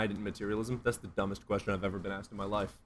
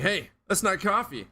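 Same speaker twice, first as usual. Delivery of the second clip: lightly voiced mom, higher and slow; a hint of a mom's scolding, slow; imitating mom; 9 semitones higher, 5 dB louder than usual. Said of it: "My mom's like".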